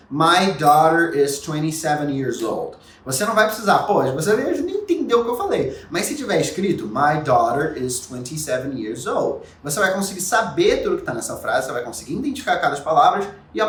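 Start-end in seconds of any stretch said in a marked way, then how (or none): 0.1-2.8 English listening example. Shown as a demonstration. 6.9-9.4 English reading example. Shown as a demonstration. Same example as if read.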